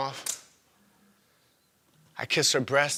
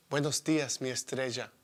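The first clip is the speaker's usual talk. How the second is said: whispered endearment; 2 semitones lower, 6 dB quieter than usual. Acted. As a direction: say it hushed, for one listener only. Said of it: "I whisper into her ear".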